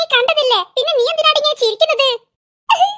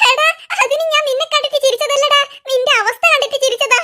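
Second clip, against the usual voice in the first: laughing; 3 semitones higher than usual. Acted. Explaining while laughing.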